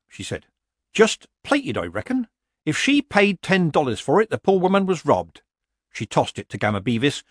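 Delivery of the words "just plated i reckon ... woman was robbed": put-on dry old witch, pitched up at times; lightly voiced Granny. Granny examines the abandoned cup, drily unimpressed. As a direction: appraise it in a light character voice.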